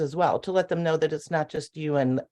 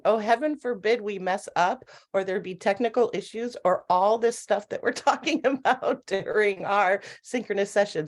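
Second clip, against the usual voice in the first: higher-pitched, chuckling mock worry; amused, laughing; 4 semitones higher than usual. Real, not acted. Presenter teasing a colleague about possible mishaps, laughing. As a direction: say it through light laughter, pitched up. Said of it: "I'm sitting here laughing".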